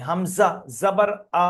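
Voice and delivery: short, undrawn final "আ"; "আ" stopped short; no elongation. Shown as a demonstration. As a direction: recite "হামজা, জাবার আ" without stretching the vowel. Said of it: "সেটাও আমি টান দেইনি".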